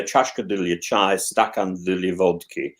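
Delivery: slow Russian proverb; медленно, как русская поговорка; quoting a Russian saying. Shown as a demonstration. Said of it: "the Russians would say".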